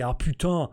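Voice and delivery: a casual French curse, "putain"; French swear word putain. Shown as a demonstration. Streamer showing the guest a French curse, French "putain". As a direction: say "putain" the French way, poo-TAN, with a nasal ending. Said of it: "but we can say".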